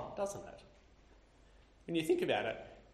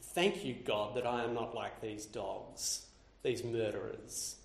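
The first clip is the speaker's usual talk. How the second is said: smug self-righteousness; 5 semitones lower than usual. Retold or imitated. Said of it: "I find myself thinking".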